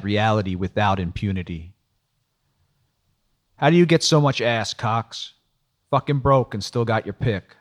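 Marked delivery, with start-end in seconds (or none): 3.6-7.6 Trong teasing. Acted. Trong ribbing Cox.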